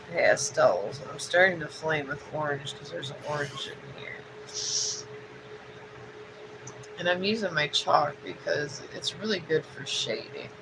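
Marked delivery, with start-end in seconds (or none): 1.1-10.5 sniffling. Real, not acted. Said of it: "You gotta excuse my sniffles".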